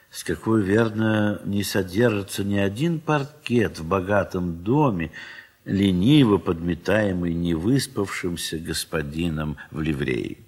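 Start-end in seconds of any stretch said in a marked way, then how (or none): none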